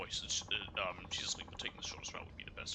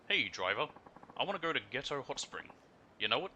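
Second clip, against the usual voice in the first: brash Kansai lady; 3 semitones higher, 4 dB louder than usual. Acted. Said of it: "spoke in a Kansai dialect".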